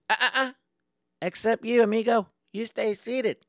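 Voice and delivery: high-pitched, pointed singling out; taunting stop. Retold or imitated. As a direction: stop the culprit with mock friendliness. Driver singles out the culprit.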